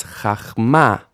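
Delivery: CHACHMA with an ah in the first syllable, stress on MA; A vowel, final stress. Shown as a demonstration. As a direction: say chachma with AH, landing on MA. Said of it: "final stress".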